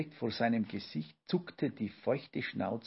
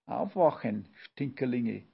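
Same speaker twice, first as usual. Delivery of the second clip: shout that squeaks; 3 dB louder than usual. Acted. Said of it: "brüllte Olki Papa".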